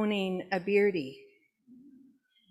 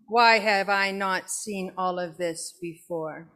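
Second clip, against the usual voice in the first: grumpy bored cat. Acted. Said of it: "the kind of grumpy bored cat Dear Diary".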